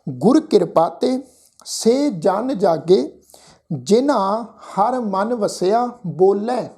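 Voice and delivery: slow, measured Gurbani recitation with drawn-out vowels; scripture recitation. Shown as a demonstration. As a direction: recite the sacred line word by word, stretching the endings. Recites the verse for students. (ਹੌਲੀ, ਲਮਕਾ ਕੇ ਗੁਰਬਾਣੀ ਪਾਠ)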